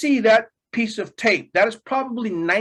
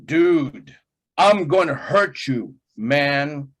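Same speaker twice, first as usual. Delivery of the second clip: stiff scripted threat; 5 semitones lower, slower than usual. Retold or imitated. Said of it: "the lines are like this".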